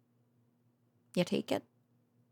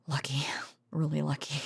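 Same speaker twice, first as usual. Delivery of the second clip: relieved whisper; 3 semitones lower than usual. Acted. Quiet relief after close call.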